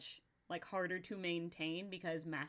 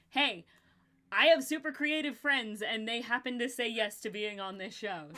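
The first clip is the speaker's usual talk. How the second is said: excited; 2 semitones higher, 6 dB louder than usual. Retold or imitated. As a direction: gush it out happily. Excited inner voice quote.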